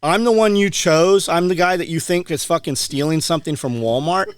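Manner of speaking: worked-up retelling of telling someone off; retold indignant anger. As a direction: replay an outraged confrontation with a clerk. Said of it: "You were so mad".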